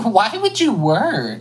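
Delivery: sarcastic. Retold or imitated. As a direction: drawl it out sarcastically. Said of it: "I'm like".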